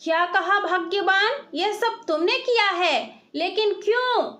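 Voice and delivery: high, startled disbelief; astonished. Acted. Mangatlal, stunned by his wife's confession, asks in astonishment. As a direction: gasp it out in shock. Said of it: "आश्चर्य करते हुए बोला".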